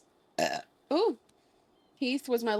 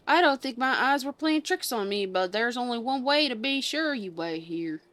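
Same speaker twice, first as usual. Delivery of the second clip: put-on southern accent; 2 semitones higher, 4 dB louder than usual. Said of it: "a weird southern accent".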